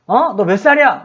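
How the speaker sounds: retold telling-off of a cheeky kid; acted indignant questioning; angry scolding. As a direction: demand an answer, mildly cross. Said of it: "막 이렇게 화를 내".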